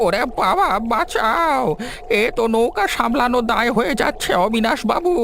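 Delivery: high, panicked calls for help; panicked cries for help. Acted. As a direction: yell for help as the boat tips. Boat caught in a storm.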